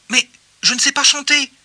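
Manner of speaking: slightly worried. A narrator's reading. Joey confessing he cannot sing, slightly worried. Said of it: "un peu inquiet".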